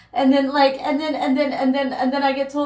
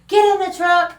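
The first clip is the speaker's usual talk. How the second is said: raised-voice order from parents; retold yell; 4 semitones higher, 5 dB louder than usual. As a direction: imitate a parent yelling an order, higher and louder. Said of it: "I just hear yelling".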